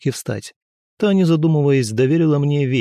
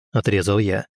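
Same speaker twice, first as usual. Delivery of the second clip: ordinary delivery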